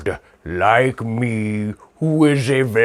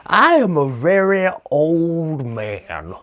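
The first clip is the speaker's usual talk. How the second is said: put-on high, creaky old man voice; lightly voiced Bill Cosby-style old man; 6 semitones higher than usual. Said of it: "I'm talking like Bill Cosby".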